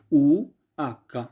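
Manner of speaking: ऊ, आका drawn out slowly as Italian letter names; slow alphabet demo. Shown as a demonstration. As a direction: stretch out ऊ and आका carefully. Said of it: "ये मैं Italian में बोल रहा हूँ".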